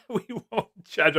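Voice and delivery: lifted high, teasing read of the comment; a chat comment read out high and teasing; mock comment voice. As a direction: read it back in a high, playful voice. Reading a viewer's comment aloud.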